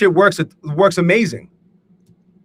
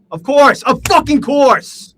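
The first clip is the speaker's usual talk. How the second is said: high, loud, slowed sarcastic groan; bitter sarcasm; 8 semitones higher, 4 dB louder, slower than usual. Real, not acted. Trader stopped out again, bitterly sarcastic. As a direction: spit it out, fed up and sarcastic.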